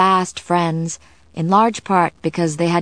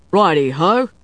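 bright-spirited chirp, pitched up at the end; cheerful; 4 dB louder than usual. A narrator's reading. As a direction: answer through a cheerful grin. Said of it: "said with a cheerful grin".

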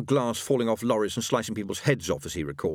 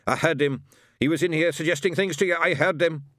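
angry accusation; 8 semitones higher, 4 dB louder than usual. A narrator's reading. Shadwell accusing.

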